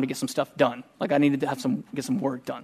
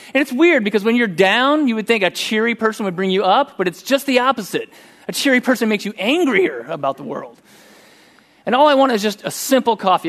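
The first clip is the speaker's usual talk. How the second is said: exasperated; 6 semitones higher than usual. Real, not acted. Preacher worked up over drive-thru.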